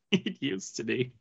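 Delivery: dropped, soft and flat; quiet. Shown as a demonstration. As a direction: let it fall away quietly.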